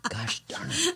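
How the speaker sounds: hiccup breaks the words; squeaky hiccup mid-sentence. Real, not acted. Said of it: "I have the hiccups".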